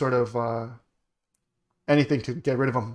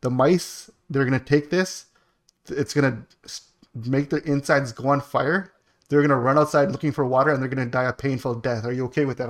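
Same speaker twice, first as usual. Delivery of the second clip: lightly imitated Indian accent. Exterminator warning a client of painful deaths, lightly mimicked Indian accent. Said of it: "I'm mimicking him. He had the hundred percent accent".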